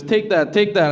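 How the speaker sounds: insistent. Retold or imitated. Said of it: "He goes".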